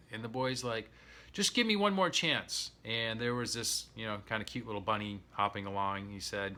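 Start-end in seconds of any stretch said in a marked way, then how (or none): 1.3-2.7 high plea. Retold or imitated. Boy begs again.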